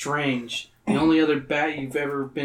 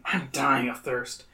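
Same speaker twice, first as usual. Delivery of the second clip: complaining; 4 dB quieter, slower than usual. Acted. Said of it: "you complain".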